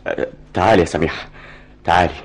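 gentle apology. Acted. Softens right after yelling.

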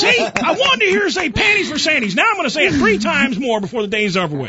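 words spilling out through real laughter; laughing. Real, not acted. Host gloats to guests, laughing, pitched high. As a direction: giggle your way through the boast.

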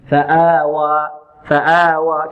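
فآوى with both long vowels held the same length; two equal alifs. Shown as a demonstration. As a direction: measure the final alif of فآوى by the first, two counts. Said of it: "نقيسها بالألف التي بعد الهمزة هنا". (مد الألفين بالتساوي في فآوى)

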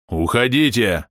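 slow, heavy barked warning; gruff bark. Acted. Big guard barking at the intruders to leave, slow gruff shout. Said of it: "рявкнул амбал".

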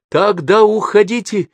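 high, loud blurted cry; girl on the cliff shrieking at her family; hysterical outburst. Acted. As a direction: fire it out in panic. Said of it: "истерично выпалила Гулия".

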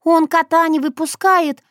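a distinct high figure explaining; Shushana voice. Acted. Shushana telling Sokolovsky about the fight, high.

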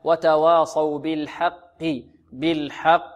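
"وتواصوا بالحق" slow, with light waws and merged qaf; correct qaf recitation. Shown as a demonstration. Teacher models for students, measured "وتواصوا بالحق". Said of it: "هكذا نطقها".

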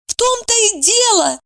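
high excited exclamation; exclaiming. A narrator's reading. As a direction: burst out, pitched high. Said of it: "воскликнула Евдокия". (высокий восторженный возглас)

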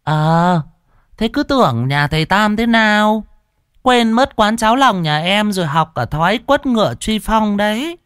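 high, mocking wife's taunt; high sneering female voice; pouting sarcastic jab. A narrator's reading. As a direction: needle him with a pout. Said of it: "dẩu môi xỉa sói".

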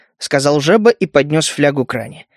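ordinary delivery

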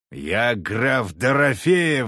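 hammed-up drunk noble; pompous drunken shout. A narrator's reading. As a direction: announce the title like a threat. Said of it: "заорал хмырь".

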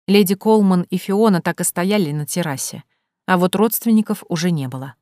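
ordinary delivery, nothing marked

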